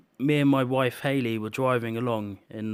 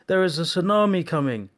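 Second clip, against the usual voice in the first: urgent warning; 6 semitones higher, 5 dB louder than usual. Retold or imitated. Soldier announces tsunami.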